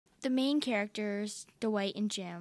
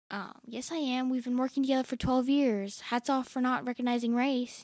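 deadpan Jim; 3 semitones higher, 6 dB louder than usual. Retold or imitated. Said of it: "Jim is like".

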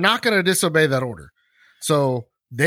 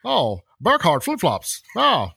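mock excited; 6 semitones higher than usual. Mock excited telegram reading.

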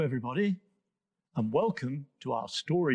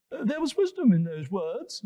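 high giraffe voice; 6 semitones higher, 3 dB louder than usual. Acted. Giraffe speaks.

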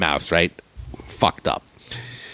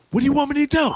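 much higher, exasperated plea; much faster than usual. Retold or imitated. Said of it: "I go".

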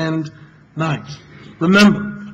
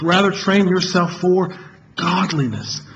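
slow, deliberate recital with train stressed; stressed recitation. Shown as a demonstration. Preacher closing the recitation drill, slow and stressing train. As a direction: say it slowly, leaning on train. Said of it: "each time emphasizing a different word".

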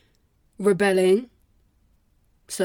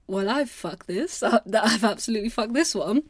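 amused resignation; 2 semitones higher than usual. Acted. Acted realization of failing exam.

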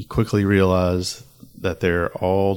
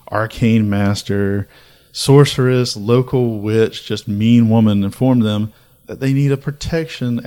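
mock outraged rant; 5 dB louder than usual. Ranting at summoners' foolishness.

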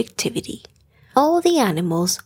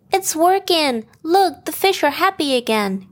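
delighted; 7 semitones higher than usual. A narrator's reading. Colette delighted at clean oasis.

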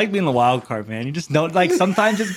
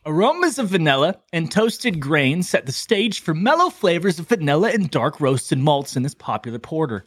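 ad read. Shown as a demonstration. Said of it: "the description of today's beverage".

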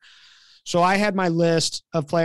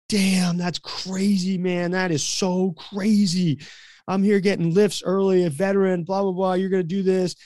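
slightly sarcastic; 2 semitones higher than usual. Retold or imitated. Late veteran complaining to the coach, slightly sarcastic. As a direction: stretch the complaint with a touch of sarcasm. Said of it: "a little bit of sarcasm in his voice".

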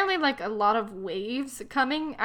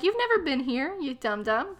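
higher, exasperated mock reproach; mock scolding; 4 semitones higher than usual. Host scolding the clueless heroine, mock exasperation. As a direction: scold the character, pitch jumping up.

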